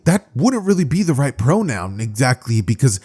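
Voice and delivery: pedantic correction. Acted. Two goons correcting Bakugo on a pronoun, pedantic. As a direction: hedge a nitpicking correction.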